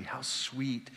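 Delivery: breathy whispered words, savouring them; hushed whisper. Acted. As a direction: let it come out as a soft whisper. Reading psalm of sweetness aloud.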